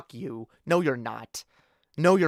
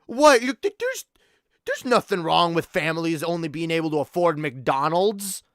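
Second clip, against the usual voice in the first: mock Republican. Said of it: "They're the ones that say".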